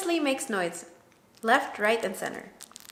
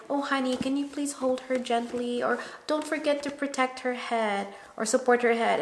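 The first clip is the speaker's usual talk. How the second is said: softer, sweet and patient; gentle request; 3 semitones higher, 5 dB quieter than usual. Shown as a demonstration. To new dad holding baby, the gentle way. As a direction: ask nicely, coaxing. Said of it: "I have a tone to my voice".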